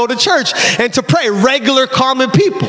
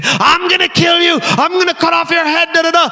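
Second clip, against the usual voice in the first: demon; 5 semitones higher than usual. Retold or imitated. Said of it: "the demon was saying".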